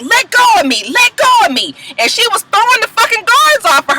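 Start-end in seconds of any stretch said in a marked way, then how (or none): 0.0-1.7 mock yell. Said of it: "she was just like".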